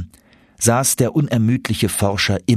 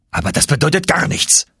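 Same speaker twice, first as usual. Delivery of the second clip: dismissive uncle; 7 semitones higher than usual. Acted. Professor rejecting nephew's notes, scoffing. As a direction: wave it away.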